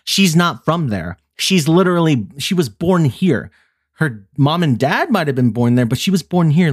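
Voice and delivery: high, exasperated insistence; exasperated arguing. Retold or imitated. Granddaughter arguing with grandma, exasperated. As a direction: argue the point, irritated. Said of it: "I'm like".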